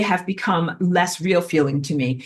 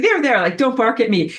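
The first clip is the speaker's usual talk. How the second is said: soothing administrator; 5 semitones higher, 4 dB louder than usual. Retold or imitated.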